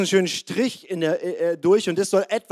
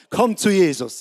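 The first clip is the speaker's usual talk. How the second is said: mildly raised imitation of a bellowing evangelist; mock preacher yell; 4 dB louder than usual. Evangelist on stage calling the crowd, mild mock yell. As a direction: call it out like a stage preacher, only lightly shouted. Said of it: "alle Leute angebrüllt und gesagt".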